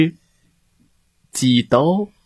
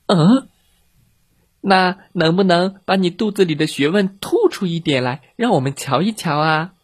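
chick voice; 5 semitones higher than usual. Acted. Chicks question teacher.

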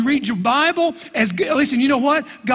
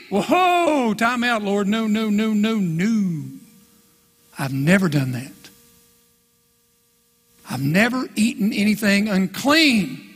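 Peter protesting; 3 semitones lower than usual. Acted. Peter refusing God.

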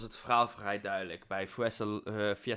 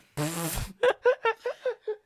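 witch cackle attempt; 4 dB louder than usual. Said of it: "een heksenlach na te doen".

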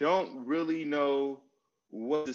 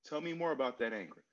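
softer, patient curious questions; calm tell me more; 4 semitones higher, 5 dB quieter, faster than usual. Retold or imitated. To his upset partner, soft and curious. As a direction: invite her to open up, gently. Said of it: "now I'll lean into".

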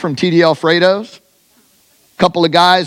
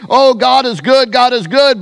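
hypocrites' empty praise, raised and sing-song; mock pious hypocrite; 5 semitones higher than usual. Preacher mocking hypocrites praising God, pious sing-song. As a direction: parrot it like a hollow churchgoer. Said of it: "walking around saying".

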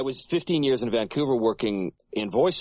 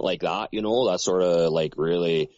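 rural Canadian accent. Shown as a demonstration. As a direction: lightly put on a lazy backwoods Canadian accent. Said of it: "the rural sort of Canadian accent".

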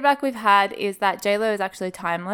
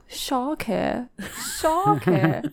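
put-on South African accent; 4 semitones higher, much slower than usual. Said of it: "the way they say shark is like".

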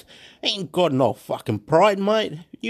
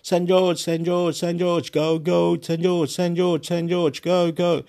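steady, rhythmic crowd chant; mock shouting of a team chant; imitated crowd shouting; 2 semitones higher than usual. Fan among a stadium crowd, imitated shouting. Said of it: "they're all shouting".

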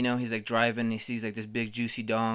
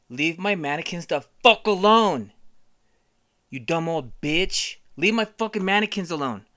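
mock angry yell; 4 semitones higher, 3 dB louder than usual. Acted rant at grandma.

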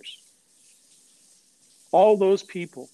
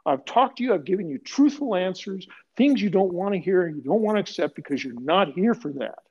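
high, fast, heated telling-off; officer yelling at the reporters to get out; retold angry yell; 5 semitones higher than usual. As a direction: let rip at them like you've had enough. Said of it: "I said".

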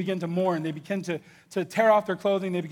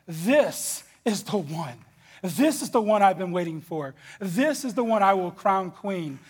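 slow, drawn-out royal declaration; king's proclamation; slower than usual. Acted. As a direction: announce it like a king crowning his queen. King choosing Esther, slow grand.

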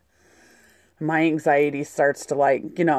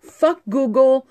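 angry outburst; 6 semitones higher, slower than usual. Real, not acted. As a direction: spit it out, slow and furious. Venting about bad directions.

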